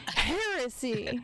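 slow, drawn-out disbelief; mock outrage. Real, not acted. Streamer mock-outraged that his friend never heard of a famous singer, slow. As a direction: drag it out like a scandal.

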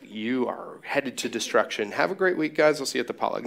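grim warning flipped to breezy goodbye; mock sermon ending. Pastor parodying his own sermon ending, mock cheery. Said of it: "I should start ending my sermons like that".

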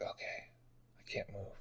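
barely audible resigned murmur; quiet. Retold or imitated. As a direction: drop almost to nothing, giving in. Retold surrender, pinned down.

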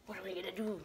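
very soft and low; quiet, low aside; hushed question. Real, not acted. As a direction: murmur the question to yourself. Repeats question quietly, then aloud.

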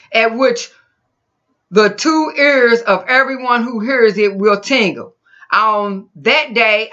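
measured, emphatic Bible reading; scripture reading. Acted. Preacher reading the Lord's words to Samuel, emphatic. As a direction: read it out as the Lord's proclamation.

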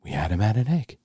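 quietly self-satisfied; smug pride. Retold or imitated. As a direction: imitate someone quietly proud of controlling people. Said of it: "he had almost his pride".

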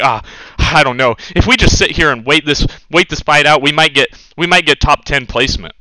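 lightly voiced whiny teammate; hint of a lazy player mimicked; mocking passive teammates. Streamer mimics teammates who camp for points, lightly mocking. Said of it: "you guys are like".

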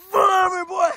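loud, angry yell; shouting it away. Real, not acted. Gamer yelling at the monster to leave, loud shout. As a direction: chase it off with a shout.

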